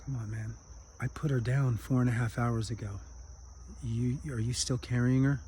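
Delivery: soft, calm, letting the lesson land; gentle correction. Acted. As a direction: reassure him kindly. Wise monk gently correcting friend.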